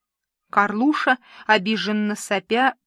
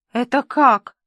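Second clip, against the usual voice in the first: louder, stunned question; dumbfounded; 3 semitones higher, 6 dB louder than usual. A narrator's reading. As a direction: ask in bafflement. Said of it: "ошарашенно спросила девица". (ошарашенно)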